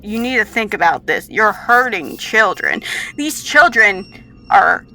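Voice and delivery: loud, lightly voiced admonishing scientist; a touch of grave reproach; stern colleague.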